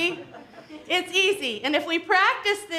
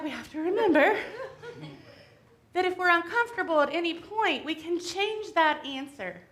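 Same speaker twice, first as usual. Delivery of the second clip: out of breath; 3 semitones higher than usual. Real, not acted. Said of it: "as I'm out of breath".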